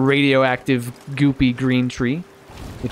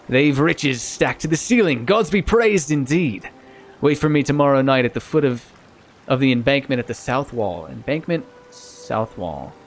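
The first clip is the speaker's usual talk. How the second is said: pirate voice. Acted. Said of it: "a pirate voice".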